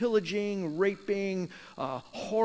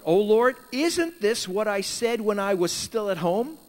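pleading Jonah; 4 semitones higher, 5 dB louder than usual. Retold or imitated. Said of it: "He prayed to the Lord".

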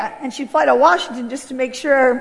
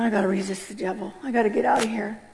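low muttered resolve; 4 semitones lower, 6 dB quieter than usual. Retold or imitated. Resolving to herself to flee.

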